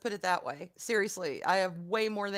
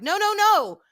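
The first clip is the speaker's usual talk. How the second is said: retold interruption; 9 semitones higher, 6 dB louder than usual. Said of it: "I was like".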